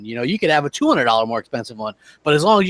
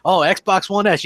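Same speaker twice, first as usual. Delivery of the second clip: advertising shtick; 5 semitones higher, slower than usual. Retold or imitated. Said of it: "he does the advertising shtick".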